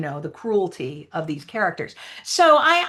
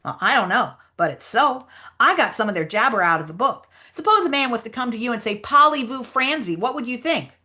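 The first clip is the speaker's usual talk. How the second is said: higher-pitched explaining character; lightly voiced storybook character, pitched up; Huck Finn; 5 semitones higher than usual. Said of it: "read the Huck Finn lines".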